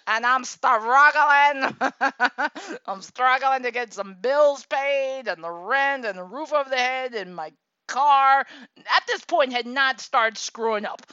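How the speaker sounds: loud, high and laughing through it. Real, not acted. Telling viewers about bills, laughing loudly. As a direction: laugh through the hard times.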